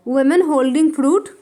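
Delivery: each word drawn out slowly for writing down; very slow, careful dictation pace. Shown as a demonstration. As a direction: spell it out slowly for the class. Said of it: "English में लिख दे रही हूँ".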